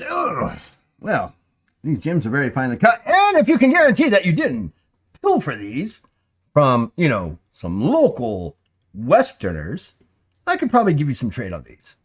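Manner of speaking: high, loud merchant sales pitch; wheedling shopkeeper. Acted. Shopkeeper bargains with the party, high and loud. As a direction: sweeten the offer with a high lilt.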